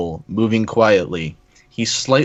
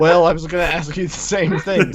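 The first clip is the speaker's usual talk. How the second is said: character voice; 6 semitones higher than usual. Acted. Reading Pinkamena's line.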